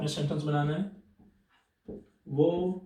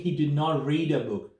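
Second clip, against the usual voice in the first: very slow, word by word; measured classroom example; slow dictation; much slower than usual. Shown as a demonstration. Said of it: "पर यहाँ पे जब बात करेंगे".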